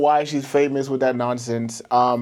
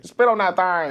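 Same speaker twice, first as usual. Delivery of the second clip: lightly mimicked catchphrase, slightly raised; imitated man's talk; 4 semitones higher than usual. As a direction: mimic it with a higher start. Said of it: "like a nigga talking".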